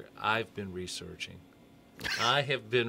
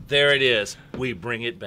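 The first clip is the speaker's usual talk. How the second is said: rally cry; 10 dB louder than usual. Pretend.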